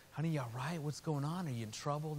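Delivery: softly voiced concerned dad; gentle concern. Father to his crying little girl, gentle concern.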